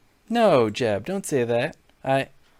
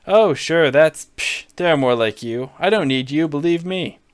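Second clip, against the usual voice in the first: Trump voice; 2 semitones higher, 4 dB louder than usual. Acted. Donald needling Jeb on stage, lightly brash Trump voice. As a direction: bluster at him like a showman.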